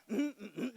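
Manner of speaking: mock sulky grunts; imitating a grunting teenager; imitated grunting. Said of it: "grunt at you".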